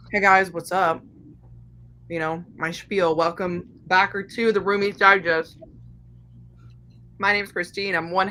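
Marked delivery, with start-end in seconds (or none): 0.1-5.6 talking while eating grapes; chewing noisily. Real, not acted. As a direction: mouth full of grapes. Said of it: "sorry, guys, I'm eating grapes".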